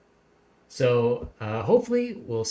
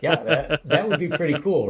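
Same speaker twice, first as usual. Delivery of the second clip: laughing; 5 dB louder than usual. Real, not acted. Laughs at the moonstone joke.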